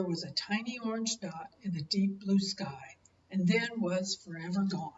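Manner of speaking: gentle storybook reading voice; story narration. Acted. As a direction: read it like a bedtime picture book. Grandparent reads picture book aloud.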